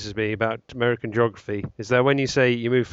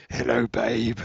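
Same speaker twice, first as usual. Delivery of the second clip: romantic voice; slower than usual. Shown as a demonstration. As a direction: play the smooth charmer. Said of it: "That's my romantic voice".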